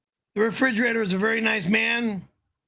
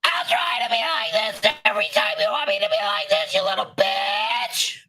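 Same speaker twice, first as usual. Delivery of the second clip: much higher, fast shrieking yell; high-pitched Banshee voice; 5 semitones higher than usual. Shown as a demonstration. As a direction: scream it high and fast at the chat. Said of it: "thank you. That's what people want".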